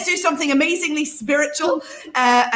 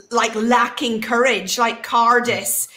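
Northern Irish Cardis. Shown as a demonstration. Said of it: "me saying it in a Northern Irish accent".

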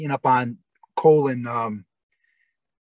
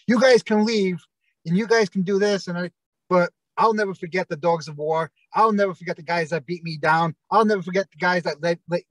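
rallying speech; 3 semitones higher than usual. Retold or imitated. Wrestler rallies his teammates before the crowd, raised rally cry. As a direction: rouse the crowd with a pitched-up call.

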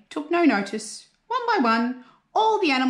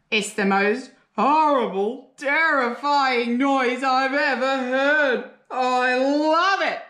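delighted shout; 5 semitones higher, slower than usual. A narrator's reading. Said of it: "shouted the bunyip".

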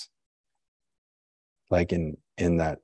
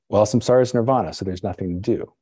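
quick, louder, breezy brush-off; flippant; 2 semitones higher, 3 dB louder, faster than usual. Retold or imitated. Teacher mocking a careless student, quick flippant brush-off. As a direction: toss it off like it's nothing. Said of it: "flippantly saying".

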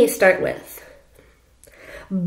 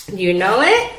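ordinary delivery

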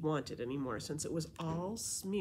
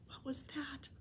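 voiceless and softer, on edge; frightened whisper; 9 semitones higher, 8 dB quieter than usual. Acted. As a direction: whisper it scared in the dark. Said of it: "Kayla whispered".

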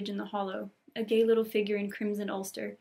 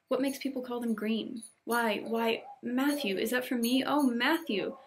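excited Anne; 2 semitones higher, 3 dB louder than usual. Acted. Anne greets Marilla and Matthew on Christmas morning, excited. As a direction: gush with Christmas delight, lifting the voice.

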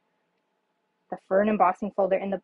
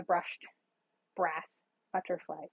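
spaced out carefully, a little lower and softer; slow and careful; 4 semitones lower, 8 dB quieter, slower than usual. Real, not acted. Crafter naming brass butterflies without getting tongue-tied, slow and careful. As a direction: take each word slowly to avoid tripping. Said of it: "say that slow so I don't tongue tie myself".

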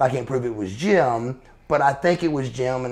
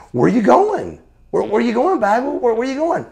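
rising, urgent calls after someone leaving; imitating people calling out; 9 semitones higher, faster than usual. Crowd members calling to a wrestler leaving with his bags, urgent and rising. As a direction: call after him as if he's walking out.

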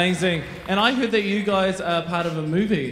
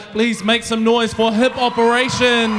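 louder rising MC call; host asks the crowd to cheer for the dancers, louder; 4 semitones higher, 5 dB louder than usual. Real, not acted. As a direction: get the audience clapping. MC calls crowd applause.

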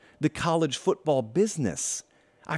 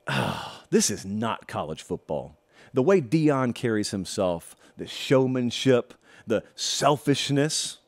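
quoting a critic; 5 semitones lower, slower than usual. Retold or imitated. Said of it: "this person's words, not mine".

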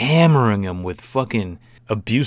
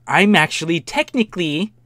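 entitled woman impression; 6 semitones higher, 5 dB louder than usual. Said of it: "When people are like".

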